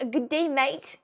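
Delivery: put-on Australian greeting; Australian accent. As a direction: call out a corrected Australian g'day. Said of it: "say that the right way, as in Australia".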